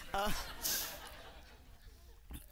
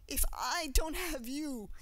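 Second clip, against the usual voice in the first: softer repeat; 8 semitones higher, 6 dB quieter, slower than usual. Real, not acted. Repeats phrase softer, slower.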